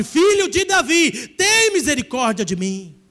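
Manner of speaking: slow, loud pleading cry, then easing; shout it loud. Shown as a demonstration. Preacher showing the church how to cry out loudly. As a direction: cry out with all your strength. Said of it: "grita bem forte".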